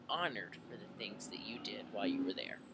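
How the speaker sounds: soft whisper. Retold or imitated. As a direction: drop to a whisper. Chief's heartfelt promise, retold.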